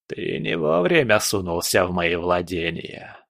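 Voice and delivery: lightly voiced sinister villain; a touch of threat; menacing old spirit. Spirit rebukes intruder in his domain, menacing.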